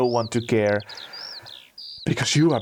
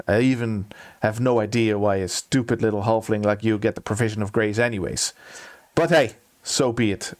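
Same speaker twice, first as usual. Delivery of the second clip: hardened contempt. Acted. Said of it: "His face hardens".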